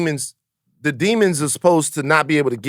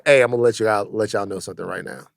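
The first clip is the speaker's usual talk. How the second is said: hushed nervous confession; 7 semitones lower, 6 dB quieter than usual. Pretend. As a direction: quietly confess to your parents. Voicing himself to his mom.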